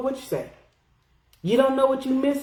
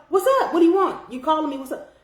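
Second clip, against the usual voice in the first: high, impatient phone pickup, re-enacted; raised-pitch "what do you want" attitude; mock brusque demand; 5 semitones higher, faster than usual. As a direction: act out snapping at an unwanted caller. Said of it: "I never talked to him like that".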